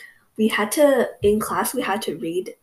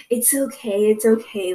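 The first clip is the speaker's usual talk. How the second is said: sudden sweetness. Retold or imitated. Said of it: "changed moods in less than one second".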